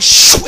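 quick imitated whoosh; whoosh sound. Preacher acting out the climax, sudden whoosh. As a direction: let out a rushing "shoo".

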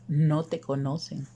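ordinary delivery, nothing marked

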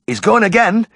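high, loud cry of alarm. Acted. Roddy crying out as the dog collapses, high and loud. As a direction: cry out in sudden panic. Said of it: "heard Roddy's cry".

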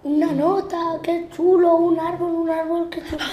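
high, bright excited chatter. Real, not acted. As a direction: gush over each thing.

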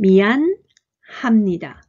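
미안 합니다 broken into two slow parts, with a pause after 미안; slow, split syllables. Shown as a demonstration. Teacher reads 미안합니다 slowly in parts for learners. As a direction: spell out 미안 합니다 piece by piece. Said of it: "読んでみましょう".

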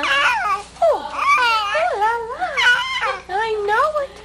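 high cooing la la. Real, not acted. Mother cooing high to her chatty baby.

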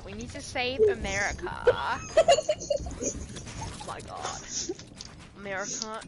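a hint of Trump, mock rally line; light Trump impression. Joking on a call, lightly voiced Trump. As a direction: play at being Trump. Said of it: "I sound like Trump".

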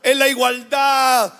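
lightly voiced scornful young people; children telling mother they're free; mocking youth. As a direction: mimic dismissive kids brushing off mom. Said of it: "que dicen".

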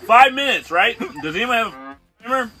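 talking through hiccups; words broken by hiccups. Real, not acted. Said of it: "There's the hiccups".

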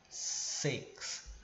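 whispered Six; soft six. Shown as a demonstration. Teacher introducing the word, whispered Six. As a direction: breathe out Six. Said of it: "a palavrinha six".

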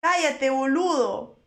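slow imitated Argentine put-down; light mock Argentine accent. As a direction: mimic an Argentine streamer, stretching the ending. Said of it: "o algo así, dice".

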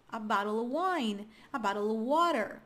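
OF shrunk to "uh" after BOTTLE; subtle V. Shown as a demonstration. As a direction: glide through "bottle of" with the V nearly gone. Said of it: "ele é sutil mesmo".

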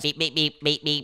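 low, soft repeated beeps; half-hearted penguin noises; penguin beeping. Pretend. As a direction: lightly imitate a penguin with little beeps. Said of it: "that's how penguins sound".

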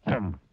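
short grumpy grunt. Acted. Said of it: "grunted Mister Grumpy".

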